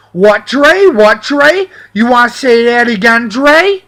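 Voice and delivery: mock tough-guy taunt, rising at the end; cocky challenge. Imitating Cody taunting the narrator, mildly cocky. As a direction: goad him like a punk squaring up. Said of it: "barreling out with his attitude".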